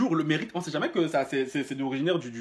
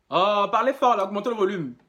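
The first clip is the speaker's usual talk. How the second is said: raised voice, calling down the line; shouting into the phone; 4 semitones higher, 4 dB louder than usual. Acted. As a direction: call out so the caller hears.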